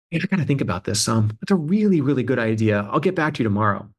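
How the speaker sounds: quick, breezy stalling colleague; Michael Rubenstein impression. To the eager founder, brushing off the idea fast and breezily. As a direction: rattle off a polite brush-off, fast. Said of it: "That, that was a perfect Michael Rubenstein".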